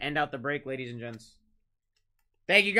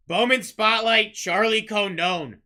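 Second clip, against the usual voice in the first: louder, slowed reveal; building hype; 4 semitones higher, 7 dB louder, slower than usual. Real, not acted. Breaker revealing a Charlie Condon card, slow building hype. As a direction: drag out the name for suspense.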